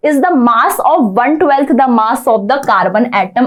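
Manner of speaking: slow, deliberate classroom dictation. Shown as a demonstration. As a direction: read the definition out very slowly. Teacher dictating a definition line.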